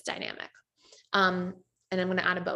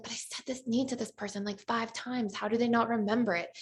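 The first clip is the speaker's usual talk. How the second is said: soft exasperation; 3 semitones higher, 5 dB quieter than usual. Retold or imitated. Partner complaining about a forgotten need, softly exasperated. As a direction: mutter it like you've said it five times.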